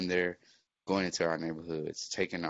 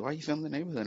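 mock neighbor voice; 10 semitones higher, 3 dB quieter, much faster than usual. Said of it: "she was like".

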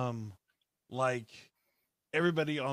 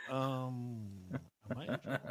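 much softer, a timid little question; meek mock worry; 4 semitones lower, 12 dB quieter, faster than usual. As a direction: play the wife, small and sheepish. Voicing wife, meek worried question.

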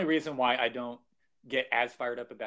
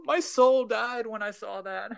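laughing; 9 semitones higher, slower than usual. Real, not acted. Laughing disbelief after villain impression.

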